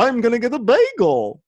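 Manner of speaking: high, whiny mock reply. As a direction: whine it like a child.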